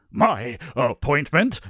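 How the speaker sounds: slow question, eagerness held back; restrained eagerness. A narrator's reading. Nicholas asks about the appointment, trying not to seem eager. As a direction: try not to sound too eager. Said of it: "trying not to sound overly eager".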